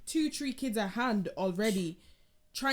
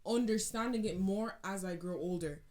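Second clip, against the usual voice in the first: heartfelt thanks. Retold or imitated. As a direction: tell your parents you finally see them. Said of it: "I've said to my parents".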